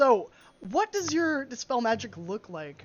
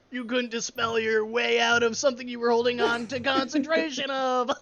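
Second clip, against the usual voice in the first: loud mocking villain gloat; 2 semitones higher, 4 dB louder than usual. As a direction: sneer like an anime villain. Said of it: "You sound like a villain from Yu-Gi-Oh".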